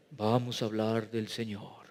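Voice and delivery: low, hushed, solemn church voice; mock-solemn holy tone; put-on pious voice. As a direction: parody a dreary preacher, soft and deep. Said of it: "Y ponían una voz difi-, diferente".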